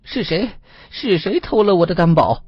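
high, loud cry of alarm; frightened, high-pitched yell; panicked shout. A narrator's reading. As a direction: cry out in terror at an unseen thief. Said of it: "他冲着空中惊恐地喊道".

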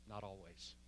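low and very soft; hushed admission. Acted. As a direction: confess it under the voice, as a humble echo. Echoes Carter's whisper-like answer.

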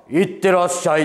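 a lightly voiced, weighty see-you-off; a star sending the young comedian off to work, imitated lightly; deep fatherly sendoff. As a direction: imitate a sturdy father seeing someone off. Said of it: "たくましいお父さん".

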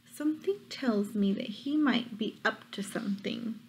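hushed storyteller whisper. Real, not acted. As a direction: whisper it like a secret. Suspicious aside to children.

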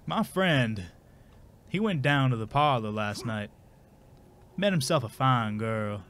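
lightly voiced narrator, unhurried; shitty Morgan Freeman. Shown as a demonstration. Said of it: "Morgan Freeman telling a shitty bedtime story".

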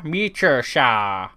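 spelling it out slowly; slow clarifying. Shown as a demonstration. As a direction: say it slowly and clearly so they hear. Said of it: "I don't have a shower".

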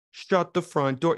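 high, slow shout of disbelief; mock amazement. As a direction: act floored by the deal.

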